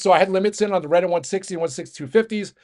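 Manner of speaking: breathless, rushing through the words; out of breath. Real, not acted. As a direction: talk while out of breath. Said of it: "Sorry, I'm out of breath".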